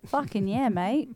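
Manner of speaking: broad Australian accent. Shown as a demonstration. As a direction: say it like a true Aussie. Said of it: "Can you say "fucking yeah".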